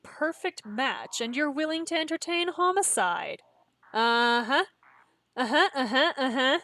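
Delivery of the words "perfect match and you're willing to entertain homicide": mocking match, pitched up; lightly voiced sinister Chloe. False girlfriend taunts the player over homicide, mock-sinister. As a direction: needle them as the turned girlfriend.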